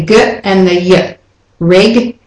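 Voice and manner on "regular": regular split as REG - YOU - la; broken into syllables. Shown as a demonstration. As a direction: spell out regular in parts with a clear YOU. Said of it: "as if it's Y O U".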